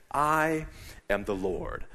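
voice of God. Retold or imitated. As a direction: speak slowly as God to him. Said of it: "I felt like God said".

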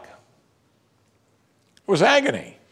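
"agony" said slowly and heavily; slow grave emphasis. Real, not acted. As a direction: let each word weigh slowly. Describing the cross.

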